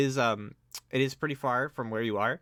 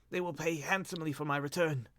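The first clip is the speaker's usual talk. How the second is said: higher, weak promise; cracked, broken voice; 6 semitones higher than usual. Acted. Lord promising rescuers reward, cracked voice. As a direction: coax with a frail voice. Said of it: "cracked and broken".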